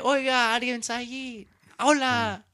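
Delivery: calling out for a shop attendant; mild mock yell in Spanish; retold yelling. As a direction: call out as if to an empty store. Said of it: "I was there yelling".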